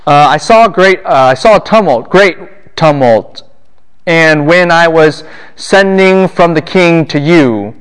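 mock-flustered false starts, then slowing right down; nervous, muddled. Teacher acting the messenger caught off guard by the king, nervously muddled. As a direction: stumble and stretch the words like a rattled messenger. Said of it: "but he talks like this".

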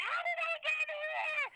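high, slow, bewildered imitation; dazed girl. Mother imitating her daughter's dazed question. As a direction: ask it like a confused concussed kid. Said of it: "you didn't know what happened".

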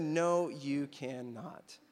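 slow, deliberate refusal; retold firm refusal. Refusing the woman's word from Daddy, slow and firm. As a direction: draw out each word of the refusal.

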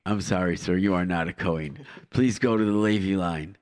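a hint of a polite official; airport announcer. Mock announcer turning people away.

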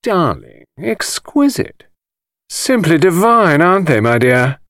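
high, drawn-out gushing socialite; drawling society voices. A narrator's reading. London crowd gushes at the exhibition, high drawling. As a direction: gush it out like a bored society lady. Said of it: "Voices drawled or murmured".

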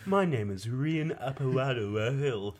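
imitating a grave myth teller; hammed-up legend telling; mock storyteller voice. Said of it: "speaking like a fucking storyteller".

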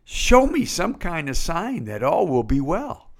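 high, half-joking call up to heaven, mocking a desperate prayer; yoo-hoo sung out high, like calling a neighbour; casual cry to God. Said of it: "and you cry out to God".

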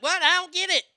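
hammed-up imitation of a puzzled woman; imitating her confusion. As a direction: play her baffled and whiny. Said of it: "and she's like".

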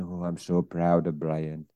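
a terrible attempt at a Jamaican mum; mock Jamaican accent. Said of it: "That's a Jamaican accent".

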